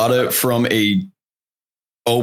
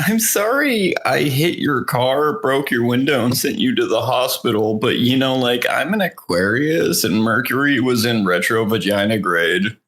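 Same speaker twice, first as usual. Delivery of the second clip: put-on sorority girl voice. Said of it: "he sounds like a sorority girl".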